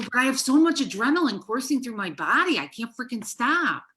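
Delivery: loud, high, worked-up rant; retold angry outburst. Wife to husband mid-argument, loud and fired up. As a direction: let the adrenaline run the words. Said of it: "I was so freaking angry".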